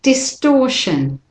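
slow "Distortion", stress on "stor"; model pronunciation. Shown as a demonstration. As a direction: say "Distortion" slowly for students. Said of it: "do it again with me".

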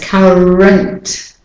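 "current" drawn out slowly, its E reduced to "uh"; weak vowel. Shown as a demonstration. Teacher isolates the weak syllable for learners, slow "current" with schwa. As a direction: slowly say "current" as CUH-runt. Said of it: "it's the weak syllable, the weak form".

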